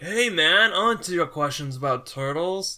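laid-back surfer dude. Retold or imitated. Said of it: "just do a surfer dude".

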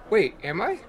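ordinary talk, nothing marked

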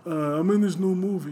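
put-on old Jewish New Yorker accent, lightly done; old Jewish man voice. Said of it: "in the Jewish voice".

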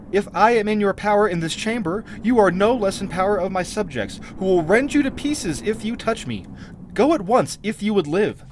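haughty, threatening queen in a read-aloud tale; defiant queen. A narrator's reading. Queen warning the intruder to leave, defiantly.

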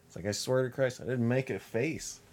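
shrill disbelief at the accusation; denying making a face to the training officer; incredulous. Retold or imitated. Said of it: "I'm like".

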